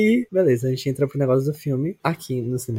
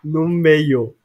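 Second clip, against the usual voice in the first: laughing; 4 semitones higher, 4 dB louder, slower than usual. Real, not acted. Laughing retelling cousin seated middle.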